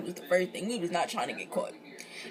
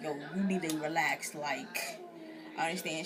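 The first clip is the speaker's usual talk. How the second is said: lower, softer, reassuring; calming; 5 semitones lower, 5 dB quieter than usual. Retold or imitated. Host calming her crying friend upstairs, soft and low. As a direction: soothe her like you're talking her down.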